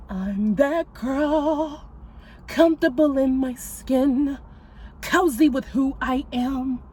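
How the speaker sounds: very slow, drawn-out self-love lines; a singer's affirmation. Retold or imitated. Reciting a singer's affirmation to viewers, lightly imitated. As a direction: savour each word like a diva. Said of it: "And then the singer go".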